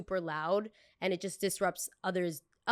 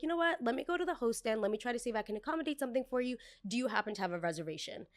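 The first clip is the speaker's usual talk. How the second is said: sweet server voice; 5 semitones higher, faster than usual. Pretend. Server placating guest.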